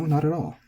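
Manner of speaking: at stressed with a high pitch then a fall; conversational "Oh, not at all." with an accented fall; light casual reply, pitch dropping after at. Shown as a demonstration. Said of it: "it's actually accented".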